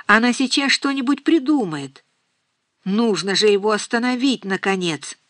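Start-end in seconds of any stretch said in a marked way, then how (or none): none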